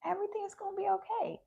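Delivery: calm reassurance. Retold or imitated. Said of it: "I just had this calmness".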